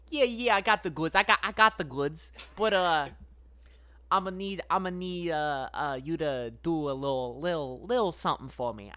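snake bartender. Acted. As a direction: play a sly snake dealer. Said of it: "And the snake goes".

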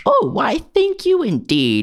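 hammed-up British accent, pitched high; bad British accent. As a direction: grandly thank him in a put-on British accent. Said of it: "in your bad British accent".

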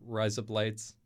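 quick run-together Australian "Rise up lights"; Australian accent. Shown as a demonstration. Guest showing host the one Australian phrase he knows, Australian accent. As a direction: say "Rise up lights" fast, as Australian "razor blades". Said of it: "if you say it fast".

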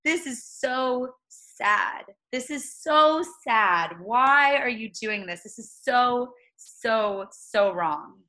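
lightly imitating a crying teen; retold crying kid. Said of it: "and he's crying".

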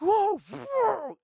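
sudden high, loud startled whoa, cut short. Retold or imitated. Seeing a huge ugly fish under the boat, a high loud startled yelp. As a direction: yelp at the sight, then swallow it. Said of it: "I muffled my words".

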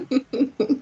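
short chuckle; amused chuckle. Real, not acted. Guest asked for anecdotes as the podcast ends, amused chuckle. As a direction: chuckle briefly at the question.

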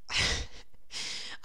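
real, voiceless little laugh; soft breathy laugh. Real, not acted. Podcaster trailing off about the job, soft laugh. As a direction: let out a quiet puff of laughter.

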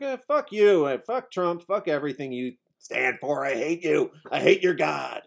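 hammed-up pissy tantrum; mock tantrum. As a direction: throw a bratty little fit. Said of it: "the pissiest little tantrum".

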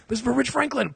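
taunting. Pretend. Punching Chuck, taunting quote.

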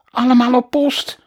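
high, loud shriek of alarm; shrieking teacher. Acted. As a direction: scream the order to the staff. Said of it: "gilde mevrouw Moppers". (gillende juf)

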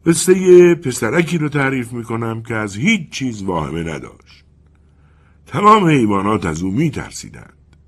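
the wind as an old storyteller, lightly played; wind character voice. The wind admits it forgot the story, lightly voiced.

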